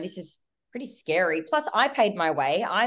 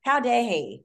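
mild indignation; 5 semitones higher than usual. Retold or imitated. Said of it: "I absolutely flipped it".

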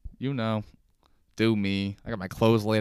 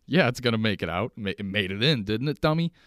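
sarcastic retort; 2 semitones higher, 4 dB louder than usual. Retold or imitated. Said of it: "I didn't say that".

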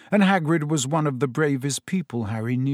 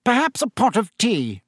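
1 Minister ordering; 8 semitones higher than usual. A narrator's reading. Fudge orders from Tom.

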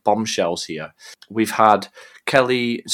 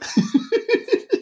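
real rising giggle; giggling at the voice; high giggle; 4 dB quieter than usual. Real, not acted. Laughing at partner's voice.

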